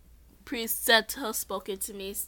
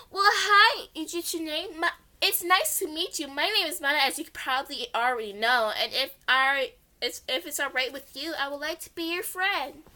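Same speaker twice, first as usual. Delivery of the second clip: put-on higher, sweet friendly girl voice; 5 semitones higher than usual. Mana greets the new girl and offers friendship, sweet.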